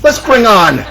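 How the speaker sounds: show announcer. Acted. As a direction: bring on the next act with a big call. Host announces next act.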